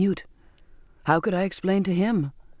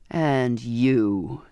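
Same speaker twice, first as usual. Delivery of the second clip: lower, contemptuous sneer; 5 semitones lower than usual. A narrator's reading. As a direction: curl the lip on it. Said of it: "he sneered".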